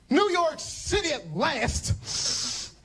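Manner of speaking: high, slow, starry-eyed sigh; dreamy arrival. Retold or imitated. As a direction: savor it like a dream come true. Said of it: "I said".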